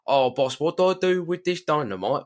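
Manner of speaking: high mock-panicked crook voice; panicky henchman. Crook asking the boss about the dynamite, mock panic. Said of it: "they go".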